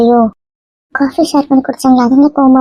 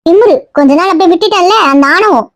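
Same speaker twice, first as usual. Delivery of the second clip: higher-pitched, cross telling-off; indignant scolding, pitched up; angry berating; 5 semitones higher than usual. Acted. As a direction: berate her for arrogance. Mother berating her daughter.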